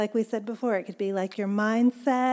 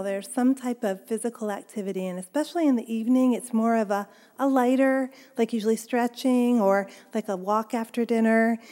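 talking while walking on a stepper; slightly winded, breathing between phrases. Real, not acted. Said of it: "I sound a little bit out of breath".

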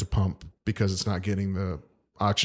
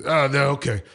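high, slowing mock Ukrainian doctor accent; hammed-up Ukrainian-Irish accent; 8 semitones higher, slower than usual. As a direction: imitate a Ukrainian doctor lecturing, drawn out and pitched up. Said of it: "Can you tell us in that Ukrainian Irish accent".

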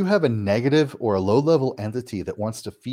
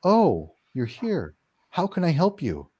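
slow, gentle offer of help; helpful; 5 semitones higher, slower than usual. Retold or imitated. Homeowner greeting the spirit: slow, kind welcome. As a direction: welcome the spirit kindly, taking your time. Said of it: "you change to".

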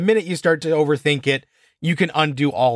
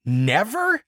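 incredulous; 3 semitones higher than usual. Retold or imitated. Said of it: "I'm just like".

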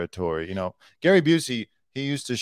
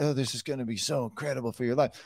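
quick, lightly mocked sales hype; rattled-off promise to an audience; promoter impression; 7 dB quieter, much faster than usual. Mimics promoter's sales patter.

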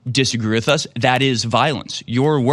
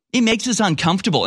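higher, sneering repeat; mocking repeat; 7 semitones higher than usual. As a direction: echo his words with mockery. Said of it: "But then he says".

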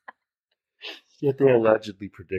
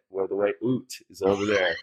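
Canadian oot. Retold or imitated. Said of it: "You just said it".

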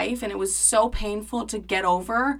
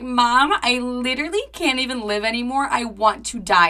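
dramatic despair; 3 semitones higher than usual. Retold or imitated. Crying to mom on the phone after the salon, dramatic despair. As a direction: overplay the misery for mom. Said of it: "You're being so dramatic".

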